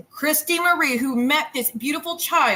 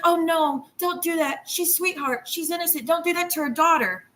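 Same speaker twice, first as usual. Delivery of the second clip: higher, whiny mock-innocent voice; mock sweet plea; 5 semitones higher than usual. Mocking a streamer's fake concern to the audience, whiny. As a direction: mimic her pleading sweetly, hammed up. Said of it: "first she's like".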